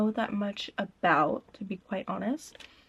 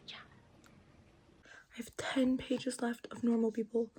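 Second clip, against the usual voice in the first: whispering; 6 dB quieter than usual. Real, not acted. Whispering late at night.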